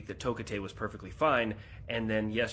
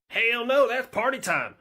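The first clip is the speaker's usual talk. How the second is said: much higher, louder whoop; rowdy refusal; 10 semitones higher, 6 dB louder than usual. Acted. Florida man refuses to leave for the hurricane, loud and rowdy. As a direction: brush off the hurricane like a party.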